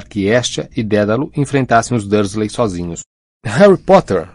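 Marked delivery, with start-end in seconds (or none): 3.4-4.3 high, animated exclamation of greeting; animated little man's high-pitched greeting; excited squeal. A narrator's reading. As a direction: squeal the name with delight, pitched up. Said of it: "esganiçou-se uma voz animada".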